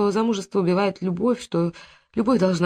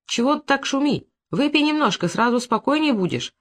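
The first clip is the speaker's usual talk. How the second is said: добродушный дядя; 8 semitones higher than usual. A narrator's reading. Дядя уговаривает племянницу.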